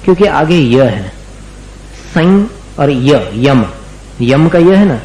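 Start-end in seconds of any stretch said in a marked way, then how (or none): 2.1-3.7 सं and य spelled out slowly; slow syllable split. Shown as a demonstration. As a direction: break संयम into सं and य, then यम. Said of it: "उस य में उस अनुस्वार के उच्चारण को मिलाना".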